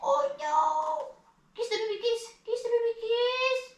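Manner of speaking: high, small fake whimper; pretend crying. Mama urging a kiss for the baby, pretend crying. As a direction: coax softly in a very high, make-believe sad voice. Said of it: "pretend mag-cry-cry".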